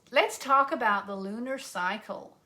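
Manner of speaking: lightly mocked American accent; put-on American accent. Host introduces lunar cycle to viewers, playful American accent. Repeats line in contrasting accents.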